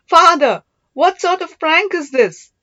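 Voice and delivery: high, loud, delighted disbelief; amused exclamation. Acted. Daughter unmasking her father's disguise, amused and loud. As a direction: laugh off his prank, loudly. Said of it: "turned into amusement".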